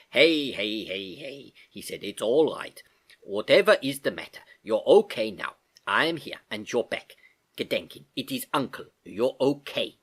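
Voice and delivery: calm her down tenderly; gentle comfort. Acted. Uncle comforting frightened niece, gentle. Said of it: "comforting her gently".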